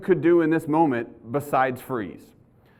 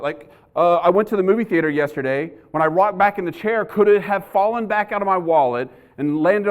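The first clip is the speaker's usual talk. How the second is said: retold panic. Cop retelling how he lost his badge wallet, panicked. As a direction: act out a spiralling worry, raised voice. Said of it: "And I am freaking out".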